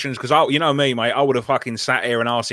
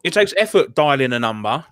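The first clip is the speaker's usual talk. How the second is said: whispered joke. Pretend. Joke about heavy breathing.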